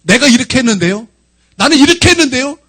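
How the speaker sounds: high, insistent listing of efforts; aggrieved self-righteous complaint. Retold or imitated. Preacher voicing self-righteousness toward God, high aggrieved protest. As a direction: plead your case, pitch climbing and staying high. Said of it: "하나님께 서운한 것이".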